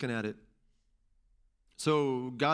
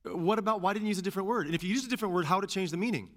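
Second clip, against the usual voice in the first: higher, run-on string of questions; questioning God; 6 semitones higher, faster than usual. Acted. Believer asking God about his choice of word, questioning. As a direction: keep probing in a raised pitch. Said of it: "have a conversation with God about it".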